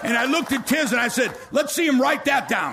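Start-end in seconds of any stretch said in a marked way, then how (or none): 1.5-2.7 joking aside. Real, not acted.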